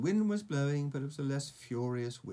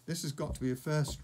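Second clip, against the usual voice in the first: drawling; 4 semitones higher, 4 dB louder, faster than usual. Acted. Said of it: "drawled Fishlegs".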